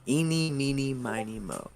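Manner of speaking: singsong rhyme, starting high and falling; teasing counting-out chant; playful. Acted. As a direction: draw out the choice playfully. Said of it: "almost kind of playfully".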